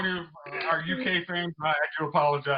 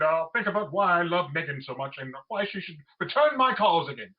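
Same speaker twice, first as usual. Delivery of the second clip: bad English accent. Podcaster mocking a lovesick Piers Morgan, bad English accent. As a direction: put on a terrible English accent. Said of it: "Your English accent is terrible".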